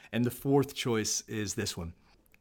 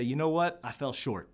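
humble apology. Pretend. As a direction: lower yourself as you say it. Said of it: "lower yourself and say".

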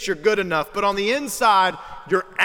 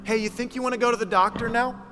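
gentle wife; 5 semitones higher, faster than usual. Retold or imitated. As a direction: coax him kindly toward the doctor. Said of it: "very gently was like".

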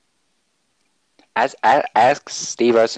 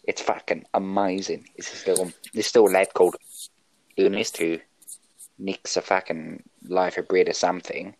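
put-on Australian accent. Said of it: "he is, in fact, from Australia".

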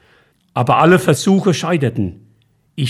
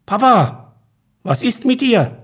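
lightly voiced worried son, higher; a hint of the son's voice, raised pitch; grown son Tobias; 10 semitones higher than usual. Son finds his father in bed: lightly voiced, higher.

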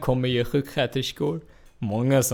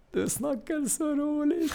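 mock Scanian; 13 semitones higher, 3 dB quieter, slower than usual. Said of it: "Ta det inte personligt".

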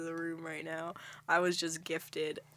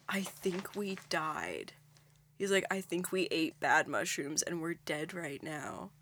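hushed, slow retelling of a grave realization; quiet, drawn-out imitation of a tripping friend; voicing tripping friend; 9 dB quieter than usual. Retelling the friend's bad-trip fear, hushed and slow.

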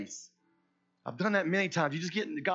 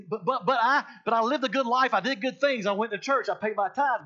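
higher-pitched pleading protest; protesting churchgoer; 5 semitones higher than usual. Acted. People argue with God at judgment, protesting. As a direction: plead your case in a rush of excuses. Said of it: "some people was gonna say".

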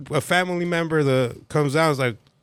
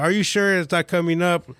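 mock suspicious scammer; 5 semitones higher than usual. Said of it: "He's like".

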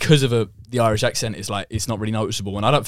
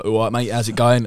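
slowed British bloke greeting; British fella. Shown as a demonstration. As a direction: put on a British lad's accent. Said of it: "a British fella".

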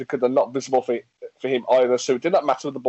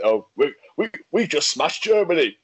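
higher-pitched gloating cheer; mock jubilation; 4 semitones higher than usual. England fan revelling in beating Germany, mock jubilation. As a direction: crow it like a delighted fan.

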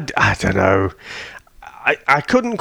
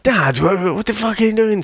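put-on higher, a kid asking his dad in disbelief; mock kid voice; 11 semitones higher than usual. A kid questioning his dad, high and incredulous. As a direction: play a kid who can't believe his dad. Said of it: "they're like".

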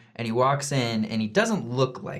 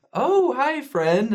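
awkward hi; 13 semitones higher, 4 dB louder, much slower than usual. Retold or imitated. Awkward greeting voiced in story.

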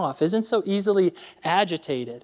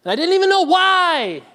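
stressed confession; 9 semitones higher than usual. Real, not acted. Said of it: "I was stressing".

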